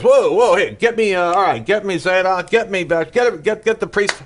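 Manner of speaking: jolted awake and barking for the priest; startled king waking up. Retold or imitated. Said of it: "he wakes himself up and he goes".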